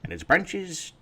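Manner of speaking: grandpa, bursting loud on branches; grandfather voice. Acted. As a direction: build to a grand cry. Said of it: "he says".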